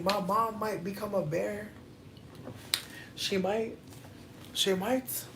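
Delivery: unconvincing Irish lilt; bad Irish accent. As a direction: try an Irish accent and miss. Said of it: "I don't have a good Irish accent".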